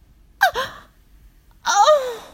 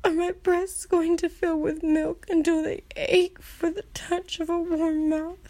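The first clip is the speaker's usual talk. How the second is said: subdued dismay; 3 semitones lower than usual. Acted. Acted subdued aftermath questions.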